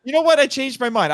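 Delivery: high, punchy "You know what?" then "I changed my mind"; mock dramatic reversal. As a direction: callback to his earlier switch, played for laughs. Repeats his own earlier joke.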